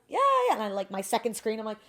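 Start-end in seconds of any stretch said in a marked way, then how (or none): 0.1-0.5 high, loud eager agreement; too-keen, raised-voice bluff. Retold or imitated. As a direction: overdo the yes to cover a bluff.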